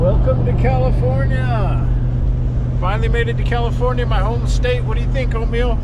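proud, buoyant greeting; excited. Real, not acted. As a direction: announce it like a homecoming. Arriving in his home state.

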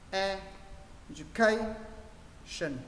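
"education" very slow, a pause after each stressed beat; broken into beats. Shown as a demonstration. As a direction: split "education" into E, du-KAY, shun with gaps. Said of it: "cứ sau mỗi trọng âm mọi người sẽ nghỉ một chút".

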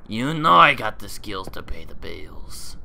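full-voiced, out-loud boast. Player boasting to the doll, out loud.

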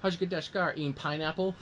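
quoting the ad line. Retold or imitated. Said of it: "the other line they did in the T V ad".

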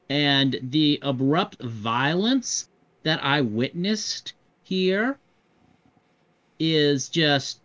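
slow, halting in-character complaint; stressed-out character. Acted. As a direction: play someone overwhelmed, drawing out each phrase with long pauses. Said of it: "And he says".

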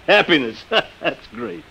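short scornful laugh around the words; bitter laugh. Acted. Man laughing at the inventor's talk of happiness, bitter. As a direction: laugh at the idea, sour and mocking. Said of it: "I don't blame you for feeling bitter".

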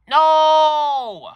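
put-on high, loud shrieking child's no; a child screaming in refusal; kid's shrieked no. Kid refuses to go home.

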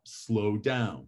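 unhurried, falling "slow down". Shown as a demonstration. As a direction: let "slow down" settle and fall. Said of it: "Vary your rate".

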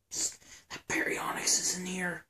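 urgent hushed whisper. Acted. Warning Gary the Baryonyx is near, whispering. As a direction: warn a friend without a sound.

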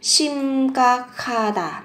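심각하다 slowly, linked into an aspirated "kh"; nối âm. Shown as a demonstration. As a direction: draw out 심각하다, sounding 각하 as "ga-kha". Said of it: "phát âm thành âm khờ". (đọc chậm 심각하다, nối âm thành "khờ")

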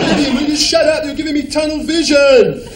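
loud shout. Acted. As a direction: yell at him to shut up. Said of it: "Stop shouting, Neil!".

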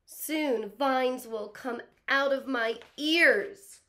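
high, anxious, slowed crocodile fretting; worried crocodile. Acted. Teacher reading the crocodile's fears aloud, anxious pleading. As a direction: fret and plead like a scared little croc.

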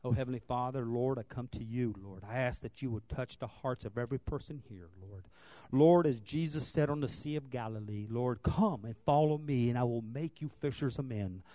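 reverent, measured praying voice; prayer. Acted. Pastor praying over the congregation at the close, reverent.

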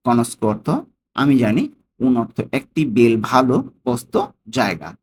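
"Conosco", "un", "bel", "posto" each separate, then its translation; broken word by word. Shown as a demonstration. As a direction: take "Conosco un bel posto" apart for learners. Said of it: "ভেঙে ভেঙে কিন্তু উচ্চারণ করছি".

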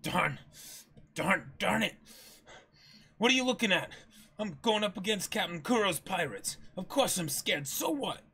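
high, loud defensive cry; Usopp outburst. Acted. Usopp to the crew, loudly defensive about being scared. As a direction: snap back to hide the fear.

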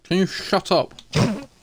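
irritated. Real, not acted. Annoyed at friend's teasing.

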